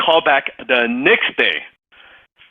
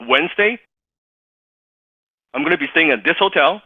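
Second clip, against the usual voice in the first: brisk confident offer; 6 semitones higher, faster than usual. Retold or imitated. Mentor making a brisk offer.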